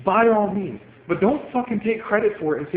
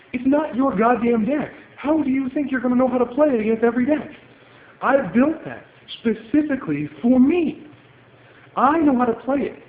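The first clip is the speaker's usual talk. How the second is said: heated rant; 5 semitones higher than usual. Real, not acted. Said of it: "I'm pretty mad".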